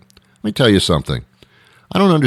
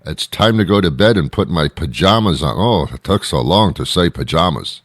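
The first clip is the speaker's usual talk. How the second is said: mocking quote. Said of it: "some people say".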